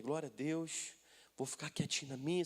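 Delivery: low, soft aside to oneself; discreet murmur. Retold or imitated. Pastor lying low beside a lady at the gym, quiet murmur. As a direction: keep it down, staying unnoticed. Trying to stay unnoticed at gym.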